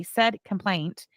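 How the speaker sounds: slow, deliberate weight on "complaint"; "complaint" stressed as a pointed reminder. Real, not acted. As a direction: draw out "complaint" to put it in quotes. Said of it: "adding the emphasis on the word complaint".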